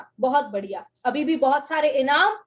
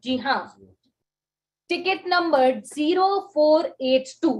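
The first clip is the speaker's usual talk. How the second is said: dramatic winner announcement; much slower than usual. Acted. Announcing the lucky ticket winner.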